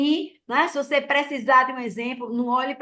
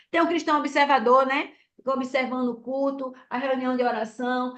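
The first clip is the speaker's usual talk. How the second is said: ordinary talk, nothing marked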